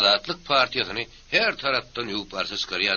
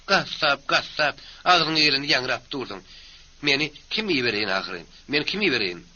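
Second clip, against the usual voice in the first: scolding wife; 4 semitones higher than usual. Acted. Wife scolds husband in quarrel.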